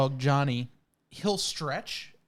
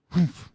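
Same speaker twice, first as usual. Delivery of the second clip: mock dog huff; 5 dB louder than usual. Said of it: "He'll go".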